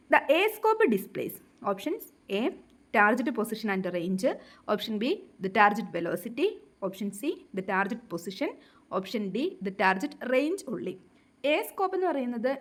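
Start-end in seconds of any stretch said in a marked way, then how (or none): 0.1-11.0 reads the question out very slowly, word by word; slow question reading. Acted. Teacher reading exam question aloud to students, very slow dictation.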